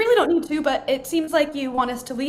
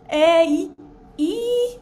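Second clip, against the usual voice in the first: voice test; 4 semitones higher, 4 dB louder, much slower than usual. Shown as a demonstration. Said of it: "Does my voice sound weird?".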